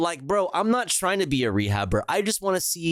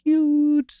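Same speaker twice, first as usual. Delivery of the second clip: gushing coo; 13 semitones higher, much slower than usual. Real, not acted. Pleading with the host over the baby deer, slow high coo. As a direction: stretch it out, melting over it.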